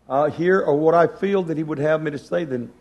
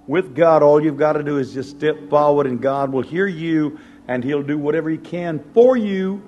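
louder, emphatic exhortation; altar call preaching; 4 dB louder than usual. Acted. Preacher calling people to the altar, fervent. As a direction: urge them forward to the altar.

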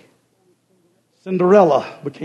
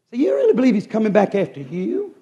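lightly acted incredulous question, pitched up; sceptical, higher-pitched query; mock disbelief; 4 semitones higher than usual. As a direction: question her as a doubting sister, rising at the end. Sisters doubt Cinderella in retold story.

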